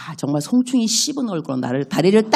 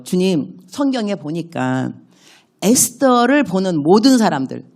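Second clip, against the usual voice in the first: slow prayer; slower than usual. Shown as a demonstration. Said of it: "이렇게만 기도할 수 있는 거죠".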